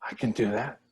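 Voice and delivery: dry sarcastic reply; deadpan sarcasm. Acted. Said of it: "She was being sarcastic".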